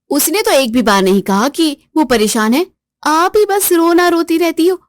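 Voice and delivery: haughty jibe at Suman; taunting sister-in-law. Acted. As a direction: needle her sister-in-law.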